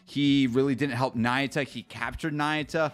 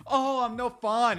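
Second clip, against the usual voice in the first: higher, slow mopey sulk; mocking whiny quote; 8 semitones higher than usual. Streamer mocking a sulking character, higher and slow. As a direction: stretch it out like a pouting brat.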